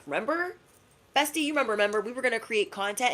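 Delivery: high, quick nudging bestie voice; teasing high bestie reminder; Saturn as a bestie. Acted. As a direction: pitch it up like a friend reminding you. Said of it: "Saturn energy is probably having you look at it like".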